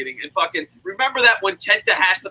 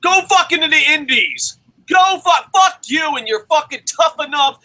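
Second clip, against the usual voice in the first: higher-pitched, shouted outburst; angry rant; 5 semitones higher than usual. Real, not acted. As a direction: tear into them angrily. Angry rant at wrestling trainees.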